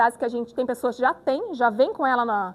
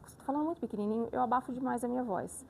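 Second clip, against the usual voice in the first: muffled voice; 7 dB quieter, faster than usual. Shown as a demonstration. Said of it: "Olha o tanto que eu abafo a minha voz".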